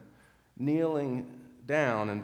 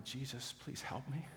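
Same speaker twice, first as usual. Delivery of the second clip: much softer, hushed plea; silent prayer; 10 dB quieter than usual. Retold or imitated. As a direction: barely voice a prayer for help. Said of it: "she prayed silently".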